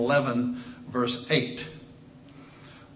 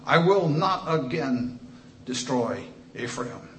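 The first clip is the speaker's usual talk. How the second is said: scripture reading. Acted. Reads God's lament aloud.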